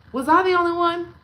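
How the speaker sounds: high, loud, fast plea; asking the viewers loudly; loud question. Real, not acted. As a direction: fire it at the viewers.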